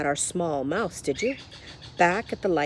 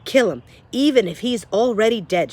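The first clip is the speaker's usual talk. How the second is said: mild shout; 2 semitones higher, 4 dB louder than usual. Acted. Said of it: "shouted Cook".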